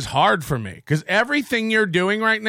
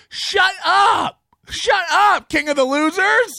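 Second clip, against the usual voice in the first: furious yell, pitched up; angry shout; 8 semitones higher, slower than usual. Real, not acted. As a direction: shout him down. Angry rant at Kevin.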